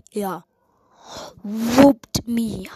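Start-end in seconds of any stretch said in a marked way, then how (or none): 1.4-2.7 breathy whisper of whooped me. Real, not acted. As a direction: say whooped me under your breath.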